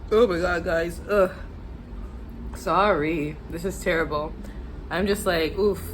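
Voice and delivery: suffering from spicy food; pained from the spice heat; burning from spice. Real, not acted. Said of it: "The spice is getting to me".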